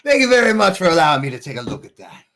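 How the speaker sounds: NPC voice. Acted. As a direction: rattle it off as the grateful NPC. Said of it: "As he says".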